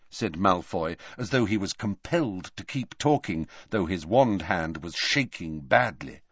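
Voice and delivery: ordinary delivery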